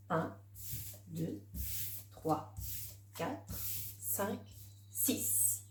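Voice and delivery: counting papillons under the breath, softly. Acted. Teacher counting butterflies for the child, soft and murmured. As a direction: murmur the numbers one by one as you point.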